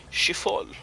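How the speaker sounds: "chiffon" offered as a second, tentative try; corrected pronunciation attempt. Shown as a demonstration. Gamer correcting how the word was said, tentative pronunciation. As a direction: sound out "chiffon" carefully after a pause. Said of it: "I should have said it".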